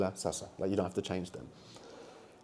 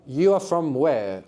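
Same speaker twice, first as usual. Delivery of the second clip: slow literal gloss; 3 semitones higher, slower than usual. Shown as a demonstration. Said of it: "So you're gonna say".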